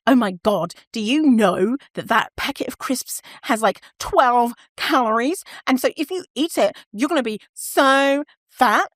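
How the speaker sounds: mock horrified calorie warning; judgmental lecturing. Former self warning someone about crisps, mock judgmental lecture.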